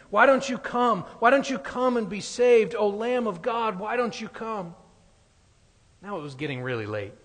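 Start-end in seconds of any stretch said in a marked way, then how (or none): 0.1-4.7 preacher's pleading cry. Retold or imitated. Minister pleading loudly with boy.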